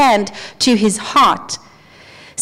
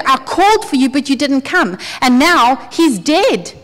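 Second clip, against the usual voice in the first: grieving accusation; 3 semitones higher than usual. Retold or imitated. Grieving Martha accusing Jesus of coming too late, pleading. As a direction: let the hurt spill out at him. Martha's grief voiced in sermon.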